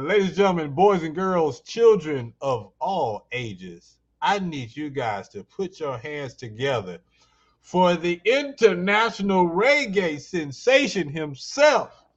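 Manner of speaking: big announcer intro; ringmaster. Acted. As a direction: hype up the crowd like a ringmaster. Host announces guest like ringmaster.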